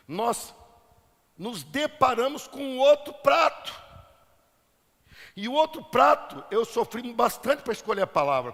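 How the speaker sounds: projected sermon voice with key words stretched; emphatic preaching. Real, not acted. Preacher teaching the congregation about imitation, emphatic preaching.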